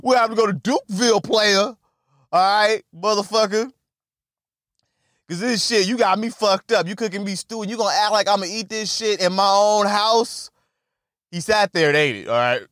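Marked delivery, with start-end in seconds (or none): 0.0-10.5 fast, hyped threat; telling the rival to fight, fast and pumped; tough guy. Retold or imitated. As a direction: rattle off the threat quickly. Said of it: "Couldn't think of the other way".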